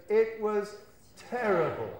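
slow, heavy and down; sounding sad. Shown as a demonstration. Teacher showing the sad student's reply, slow and glum. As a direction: let it sag, slow and sorry. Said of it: "if you really want to sound".

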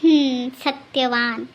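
low, drawn-out musing on the name; musing approval. Acted. Savouring the name just heard. (विचारमग्न, सावकाश कौतुकाने)

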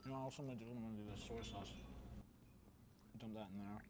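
talking with mouth full; chewing while talking; messy loud eating. Real, not acted. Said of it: "You gotta quit talking with your mouth full".

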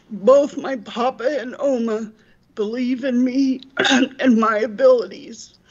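tearful, choked-up reading, throat catching; holding back real tears; real crying. Real, not acted. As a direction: read it aloud while fighting back tears. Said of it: "I'm sorry for crying".

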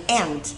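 "and" with a short open vowel; wrong vowel. Shown as a demonstration. Teacher shows what to avoid, "and" without glide. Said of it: "không phải là âm and".

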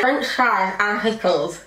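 slow, slurred through a guard; mouth propped open. Real, not acted. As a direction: force words past a guard. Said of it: "I cannot hear a word".

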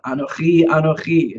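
Anochi said twice with weight on each; double emphatic Anochi. Shown as a demonstration. Teacher quoting Isaiah in Hebrew, doubly emphatic Anochi. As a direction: lean on Anochi both times, falling on the last. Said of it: "it's double emphatic again".

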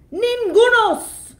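very high, very loud, slow roar; troll's roar. Acted. Troll refusing to let goats pass, huge roar.

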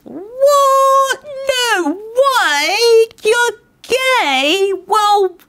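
high, hammed-up gasp of disbelief; mock shock. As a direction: play up the fake surprise, voice jumping way up. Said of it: "we're all just like".

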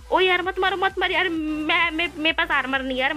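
high-pitched begging, easing down towards the end; panicked pleading. Real, not acted. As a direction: beg the attacker to spare you. Begging attackers not to hit. (घबराकर गिड़गिड़ाते हुए)

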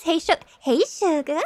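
lightly imitated Southern accent; a hint of Southern twang on the greeting. Quoting a game character's greeting in a light southern accent. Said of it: "And a southern accent".

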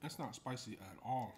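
words mumbled around food; chewing while talking. Real, not acted. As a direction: mouth partly full of noodles. Seen 1: Just slurped noodles; lips pursed, still chewing while lifting more.

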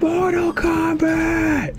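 high, very slow, stretched-out callout; Mortal Kombat announcer. Pretend. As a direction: drag it out like an arcade announcer. Friend copies announcer callout.

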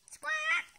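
shrill high bird squawk; parrot squawk. Acted. Bird sister squawks at speaker.

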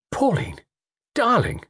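high, tender exclamation; loving relief. Acted. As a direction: breathe out the sweetheart's name in relief. Tony greets revived sweetheart.

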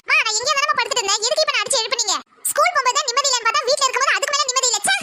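put-on whiny teen daughter. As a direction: complain like a spoiled teenage girl. Daughter voice held.

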